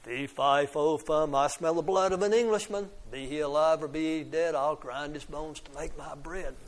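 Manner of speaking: mildly roared chant, tapering at the end; understated giant's roar, easing off. Acted. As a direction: chant it as a lightly voiced giant. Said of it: "listened to the terrible roar".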